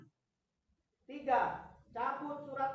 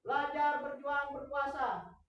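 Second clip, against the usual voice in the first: fiery revolutionary speech; 4 dB louder than usual. Real, not acted. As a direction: bellow each slogan like a rallying cry. Chanting union slogans at rally. (orasi berapi-api)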